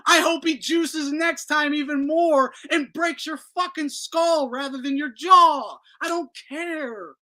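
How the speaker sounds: high, loud and heated; angry rant. Real, not acted. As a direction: vent it at him. Raging at Haney.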